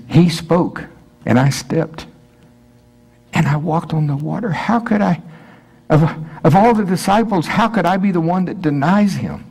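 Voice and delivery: high, pleading self-reproach; Peter's anguish. Pretend. Peter asking how he could deny Jesus, high and anguished. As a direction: ask it as if you can't believe yourself. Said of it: "See, this is Peter".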